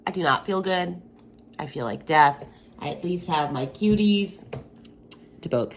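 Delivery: sick and worn out. Real, not acted. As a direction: sound sick and run down. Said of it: "you can tell I am sick".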